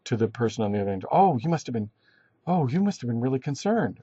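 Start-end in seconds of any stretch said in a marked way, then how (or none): 1.1-4.0 mildly acted sympathy, pitch swooping on each phrase; sympathetic. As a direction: respond with gentle mock concern, pitch rising and falling. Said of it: "responding sort of sympathetically".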